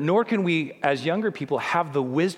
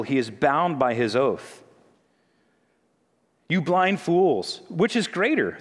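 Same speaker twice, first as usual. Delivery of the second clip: raised, forceful preaching read; ringing sermon reading of the woes; scripture reading; 3 semitones higher than usual. Acted. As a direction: proclaim the verses like a rebuke. Reads Jesus' rebuke aloud.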